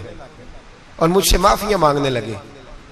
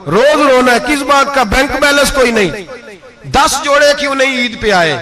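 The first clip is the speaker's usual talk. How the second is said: rising fervour; 7 semitones higher than usual. Acted. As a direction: build the list to a peak. Preacher mocks daily complaining.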